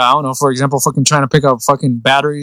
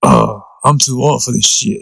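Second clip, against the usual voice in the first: a hint of a weary old cop, sighing the line; lightly voiced tired veteran cop; Danny Glover; 3 semitones lower than usual. Explaining why he relates to the line, lightly mimicking Danny Glover. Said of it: "so that's why I was like".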